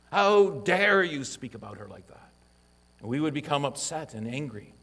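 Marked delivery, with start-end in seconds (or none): 0.1-2.3 "How dare you" thrown out higher and louder; rising to defend his wife, heated; indignant outburst. Retold or imitated. Husband rounding on a man who mocked his wife, indignant. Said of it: "We would quickly rise to her defense".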